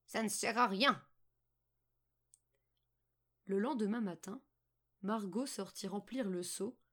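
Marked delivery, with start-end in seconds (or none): 0.1-1.0 put-on old witch. A narrator's reading. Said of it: "dit la vieille".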